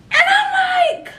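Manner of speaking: sudden high shocked cry; high shocked shout. Retold or imitated. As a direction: yelp it in disbelief. Shocked reaction in story.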